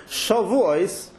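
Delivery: Shavuos said slowly with a stressed open Shah; slow, careful Shavuos. Shown as a demonstration. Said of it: "put the stress on the Shah".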